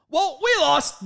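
high, loud acted quote; mock resignation. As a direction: throw up the white flag theatrically. Acting out giving up on game.

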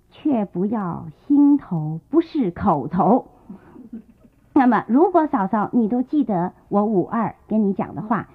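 a touch of a sly, threatening smile in the voice; mild sinister. Acted. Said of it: "阴阴险险地笑着说". (略带阴险，缓慢低沉)

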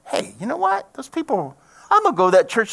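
hey, I've got it; sudden realization. Retold or imitated. Man realizing where to go, sudden idea.

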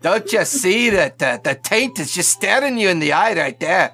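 Scottish brogue. Acted. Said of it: "his Scottish accent's terrible".

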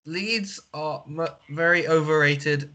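flat robotic monotone. Acted. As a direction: talk like a deadpan robot. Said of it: "stop this stupid, like, robotic voice".

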